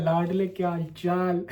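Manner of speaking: affectionate greeting. Shown as a demonstration. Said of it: "तुम्हें हिंदी समझ आती है".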